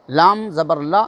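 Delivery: لا said short with a quick lift at the end; short la spelled out. Shown as a demonstration. Teacher spelling out the short لا for students. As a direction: spell out لام زبر لا with a brief لا. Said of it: "اس کا فرق ہٹا دیتے ہیں".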